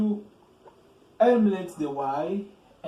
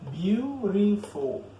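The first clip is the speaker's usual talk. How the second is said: Beautiful stretched slowly over three beats; syllable by syllable; 3 semitones higher, much slower than usual. Shown as a demonstration. Teacher showing why the adjective is long, syllable by syllable. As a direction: break Beautiful into three slow, higher-pitched syllables. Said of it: "As a three syllables".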